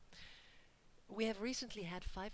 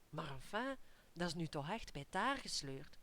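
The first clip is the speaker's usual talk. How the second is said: appalled aside. Acted. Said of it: "You're appalled".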